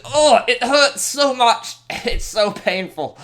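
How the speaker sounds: high, slow, drawn-out mock agony; melodramatic. Real, not acted. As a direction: wail as if in terrible pain. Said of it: "I was more melodramatic than I needed to be".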